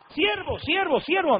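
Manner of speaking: high, repeated call without much volume; imitated calling out. Young man calling the preacher over and over, mock high calls. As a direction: mimic his insistent high-pitched calling.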